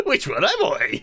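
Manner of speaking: laughing through the line. Acted. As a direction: giggle through the words. Repeating line while laughing.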